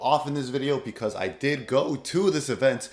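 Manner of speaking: worn-out, strained voice; hoarse voice. Real, not acted. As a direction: talk through a voice that's nearly gone. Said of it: "I have completely lost my voice".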